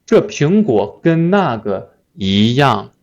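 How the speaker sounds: 一样 given the main weight; stress on 一样. Shown as a demonstration. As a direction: model reading with 一样 stressed. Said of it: "read like this".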